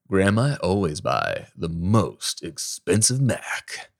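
slow, savoring brag in a announcer-style voice; triumphant voiceover boast. Retold or imitated. Voice actor friend bragging to Graham, slow triumphant boast. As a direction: savor each word like proudly showing off.

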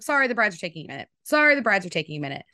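fast, insistent repeated brush-off; obnoxious gatekeeper. Retold or imitated. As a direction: imitate a wife obnoxiously guarding the door, rapid-fire. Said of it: "Jordan was obnoxious about it".

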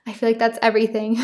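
slightly winded, catching breath. Real, not acted. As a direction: talk while still out of breath. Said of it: "I'm out of breath".

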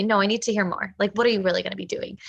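quick, firm pushback, fast; brisk coach grilling the client; tough-love coach. Acted. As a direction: press the client for real answers. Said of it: "give some tough love".

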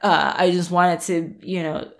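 soft, pleading whine; whiny client. Retold or imitated. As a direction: lightly mimic a whining client. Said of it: "people are like".

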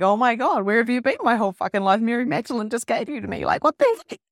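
loud, fast, delighted rush; thrilled reply to a new friend, loud and fast; gushing excitement. Retold or imitated. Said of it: "And I'm like".

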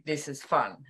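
hushed, secretive aside; whispered. Retold or imitated. Gary mimicking her thought, a soft whisper. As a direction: whisper it under your breath.

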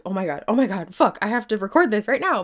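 suddenly fired-up self-quote; retold urgent excitement. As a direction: blurt it out in a mild retold panic. Retold urgent excited realization at night.

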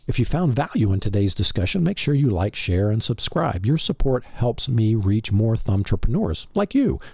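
normal talking voice

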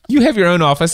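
high burst of laughter into words; laughing. Real, not acted. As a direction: laugh it out, then talk. Laughs at husband jab.

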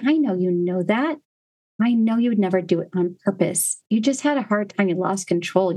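put-on gentle, steady reassurance to a child; reassuring parent. Shown as a demonstration. Mother reassuring her son after he hit his brother, gently. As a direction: calmly tell your son he's still good. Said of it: "Listen what I did there".

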